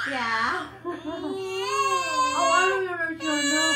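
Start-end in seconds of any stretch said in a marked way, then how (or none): 0.7-2.3 real infant cry, high and loud. Real, not acted. Baby Asiana fussing while spoken to, crying. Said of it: "bakit iyak si Asiana".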